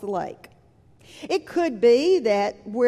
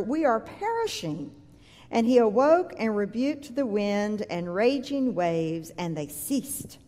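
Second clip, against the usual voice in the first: measured, solemn Bible reading; scripture reading; 3 semitones lower than usual. Acted. Scripture reading before sermon.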